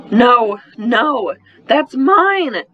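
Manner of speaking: put-on a little girl guarding her paper; child screaming. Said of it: "Angelina screamed".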